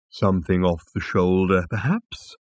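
lightly voiced helpful animal; tentative offer lifting at the end; suggesting. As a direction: suggest it like an obliging waiter. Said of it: "suggested the animal".

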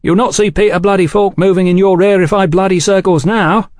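high, loud cutting-in; scornful interjection. A narrator's reading. Velasco interrupting Oliphant's polite explanation, scornful. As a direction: break in on him with scorn. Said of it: "Velasco interjected".

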